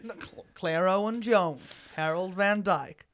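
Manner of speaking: loud mock Texan announcer; a hammed-up Texas welcome; Texan accent.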